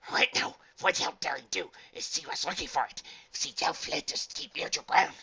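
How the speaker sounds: high, loud creature voice; nervous diamond dog. A narrator's reading. Dog relaying a warning to the archaeologist, nervous.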